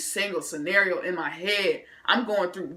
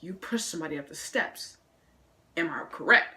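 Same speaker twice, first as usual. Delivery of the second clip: principal; 3 semitones lower, 4 dB quieter than usual. Retold or imitated. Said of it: "He says".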